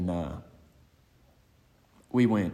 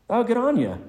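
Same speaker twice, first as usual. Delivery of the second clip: high, loud call in a mock mix of Australian and Southern; Australian-Southern accent; 8 dB louder than usual. Recalling a friend overheard in the lobby, imitated Australian-Southern accent. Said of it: "in the most impossible accent, that's, like, some strange mix of Australian and Southern".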